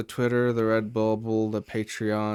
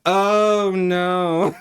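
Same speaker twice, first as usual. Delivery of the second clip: high, loud, drawn-out oh no; manager's mock horror at what they see; exaggerated dread, pitched up; dismayed realization; 6 semitones higher, 6 dB louder than usual. Manager sees the huge queue.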